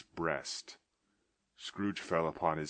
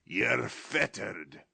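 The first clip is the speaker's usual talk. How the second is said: slow, fearful observation; a shaken old man's voice; trembling; 3 semitones higher, 4 dB louder, much slower than usual. Acted. Scrooge trembling before the chained ghost.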